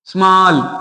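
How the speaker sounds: स्मॉल drawn out as one single sound; one syllable. Shown as a demonstration. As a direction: give स्मॉल one slow, lone beat. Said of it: "इनकी एक sound है".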